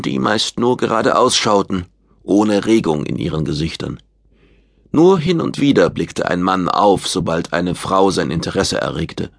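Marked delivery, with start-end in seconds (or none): none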